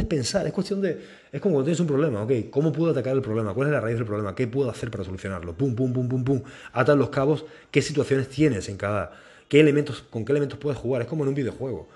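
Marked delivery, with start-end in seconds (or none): 5.6-6.4 string of spoken "pum" beats; quick percussive filler noise; rapid-fire pum-pum. Shown as a demonstration. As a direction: tick off steps with pum sounds. Imitated noise for quick steps.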